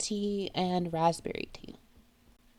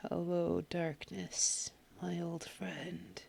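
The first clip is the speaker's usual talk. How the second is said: gloomy whisper; 9 dB quieter than usual. Acted. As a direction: murmur it like a dirge. Quoting song in gloom.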